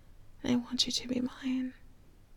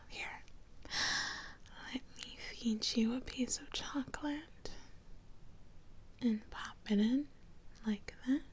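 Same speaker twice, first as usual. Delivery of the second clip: very soft, tender half-whisper; intimate murmur; 11 dB quieter than usual. Acted. Feeding the fiance a piece of chocolate, intimate murmur. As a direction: murmur it close to your partner.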